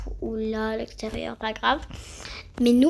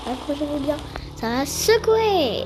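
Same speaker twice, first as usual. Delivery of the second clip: playful warning; 3 semitones higher than usual. Acted. Warning viewers before fast ride.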